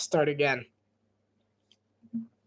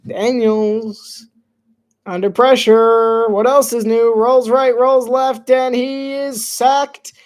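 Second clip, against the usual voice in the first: loud, slowed, hammed-up sportscaster call; calling the sack like a TV announcer; mock play-by-play; 4 semitones higher, 6 dB louder, much slower than usual. Streamer calling his own game's sack as a mock announcer.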